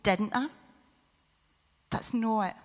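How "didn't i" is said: a lightly voiced stern God, lower; mild mock told-you-so scolding in a lower voice. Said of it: "a big stern voice saying".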